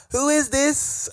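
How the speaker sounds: high-pitched mock Scottish woman; Scottish accent. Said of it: "very Scottish accent".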